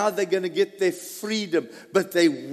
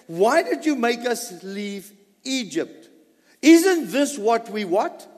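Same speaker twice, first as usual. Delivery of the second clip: whining. Retold or imitated. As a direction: imitate the complaining people.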